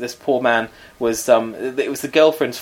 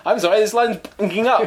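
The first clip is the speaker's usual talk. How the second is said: high, airy fake bad line; a fake apology to get off the phone; mock agent excuse; 9 semitones higher than usual. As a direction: fob them off politely. Mocking the agent dodging the call.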